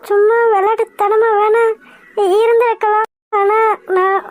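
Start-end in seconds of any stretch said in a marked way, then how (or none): 3.4-4.2 crying outburst. Acted. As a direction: blurt the confession through tears. Tearful confession of real love. (அழுகையுடன் கத்துதல்)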